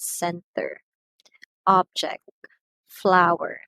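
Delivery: center, object, flower said slowly apart, each hit on its opening syllable; first-syllable stress. Shown as a demonstration. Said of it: "The first syllable is being stressed".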